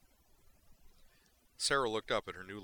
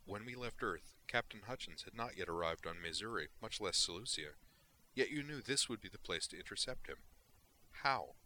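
curious Vulcan; 2 semitones higher than usual. Acted. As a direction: ask with cool, exact curiosity. Valeris explains her question.

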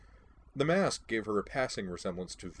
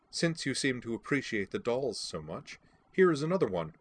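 sharp; 4 semitones higher than usual. Acted. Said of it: "said sharply".

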